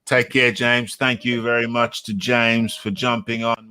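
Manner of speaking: ordinary talk, nothing marked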